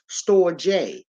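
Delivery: "store J" said slowly in two clear parts; "store J", slow, with J said as the letter name; pronunciation demo. Shown as a demonstration. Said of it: "It's pronounced".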